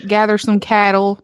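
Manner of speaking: light Southern cowgirl twang; exaggerated country accent. Host mocking her at-home self, mock country accent. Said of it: "I am the biggest fucking accent morpher".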